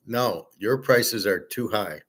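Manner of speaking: slow, firm and even, no argument; stoic. Retold or imitated. To the waitress, slow stoic insistence. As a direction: lay it down calmly and slowly. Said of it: "I'm staying stoic".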